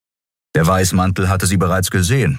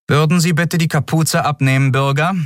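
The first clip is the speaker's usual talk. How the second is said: guard demanding; 11 semitones higher than usual. A narrator's reading.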